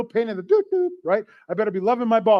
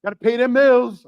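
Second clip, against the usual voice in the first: put-on street voice; 3 semitones higher than usual. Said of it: "I don't know why I'm talking like that".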